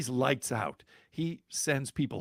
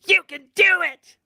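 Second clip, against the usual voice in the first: daughter cheering; 12 dB louder than usual. Retold or imitated. Little girl cheers on the batter, shouting high. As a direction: holler it like a kid at the rail. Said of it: "she goes".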